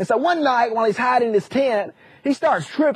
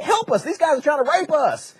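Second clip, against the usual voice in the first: higher-pitched, hammed-up cry for help; comic pleading, pitched up; mock plea for help; 4 semitones higher than usual. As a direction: plead like a cartoon victim. Angels beg townsman for help.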